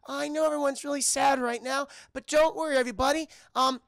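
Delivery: high-pitched, earnest little reindeer; rally the crowd in a high character voice; high voice making a hopeful speech; Olive. Retold or imitated. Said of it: "she's like".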